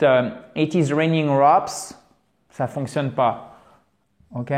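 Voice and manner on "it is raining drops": "it is raining drops" said slowly, "is" rising; slow English example. Shown as a demonstration. Teacher shows students the wrong literal translation, slowly. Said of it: "Parce que si vous dites".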